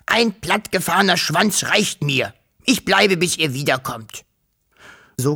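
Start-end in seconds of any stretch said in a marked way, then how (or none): 0.1-4.2 the scared dragon stays behind, high and stubborn; fussy dragon. A narrator's reading. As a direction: refuse firmly as the nervous dragon. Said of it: "fauchte der Drache".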